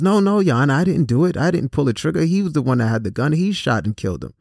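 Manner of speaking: high, frantic plea that settles as it goes; pleading defendant. Retold or imitated. Lookout pleading before the judge.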